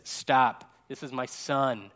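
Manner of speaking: slow down for a mildly solemn God. Retold or imitated. God cuts in on Peter's chatter, mildly solemn. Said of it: "God, like, speaks and says".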